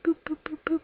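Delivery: soft little boop sounds; quietly boop out each light going off; imitated boops. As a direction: series of small, soft boops.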